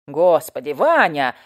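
loud throwing-up-hands cry; exasperated exclaim. A narrator's reading. Neighbour loudly exasperated with slow-witted Ivan. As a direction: cry out his name in despair. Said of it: "всплеснула руками соседка".

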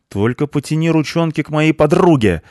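high, loud angry bark; barked threat. A narrator's reading. Cleaner defending her friend from the punk, barking. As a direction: roar a warning at him. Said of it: "рявкнула на него Швабра".

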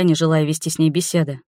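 usual speaking voice

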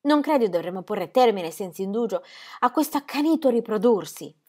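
voce femminile più acuta e agitata; Ingeborg implorante. Acted. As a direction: moglie che supplica con ansia. Ingeborg pleads. (voce alta e implorante di Ingeborg)

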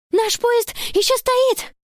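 high, slow, panting call; out of breath. A narrator's reading. Girl after running upstairs, breathless. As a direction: gasp it out after the stairs. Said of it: "задыхаясь".

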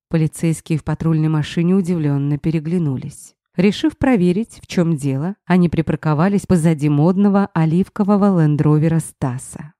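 usual speaking voice

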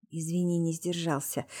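soft, low-key half-whisper; hushed, understated apology. A narrator's reading. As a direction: murmur the apology quietly. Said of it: "прошептал Витя".

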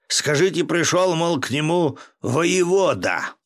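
loud high call, stretched out; drawn-out commanding shout; yelling. A narrator's reading. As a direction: shout so the monks behind the wall hear. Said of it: "заорал Волохов".

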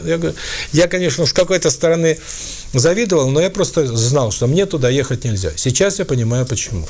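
usual speaking voice

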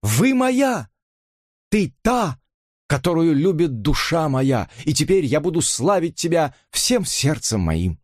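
high, trembling tearful declaration; tearful plea. A narrator's reading. Robert in tears declares love to Elisa, high and pleading. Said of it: "по щекам катились слёзы".

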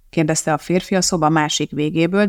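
plain reading voice

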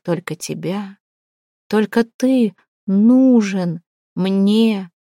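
slow, voice cracking on the last words; voice breaking. A narrator's reading. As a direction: let the voice break as she begs. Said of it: "её голос сорвался". (голос срывается на последних словах)

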